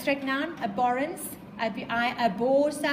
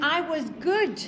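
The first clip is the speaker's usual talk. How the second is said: slow, fading plea; beg, dropping away on evil; pleading; 4 semitones lower than usual. Acted. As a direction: creature pleads with his maker, slow and fading. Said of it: "he's really pleading with him".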